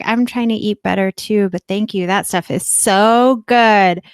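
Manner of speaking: enthusiastic thanks, building to a loud, drawn-out finish; gushing text. Retold or imitated. Texting the neighbour thanks for popcorn, acted-out gushing. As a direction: gush politely, reading your own text aloud. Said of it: "that's how you picture yourself saying this".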